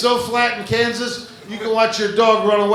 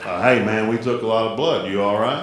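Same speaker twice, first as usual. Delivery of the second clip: a lower, lazy Texas drawl as a big friendly mosquito; Texas drawl impression; 8 semitones lower than usual. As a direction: talk it low and easy like a laid-back Texan. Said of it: "mosquitoes sound like Matthew McConaughey".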